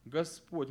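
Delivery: Господь said alone, firmly stressed on its second syllable. Shown as a demonstration. Teacher showing where the emphasis falls, stress on Господь. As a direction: land firmly on Господь as the key word. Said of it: "делаем ударение".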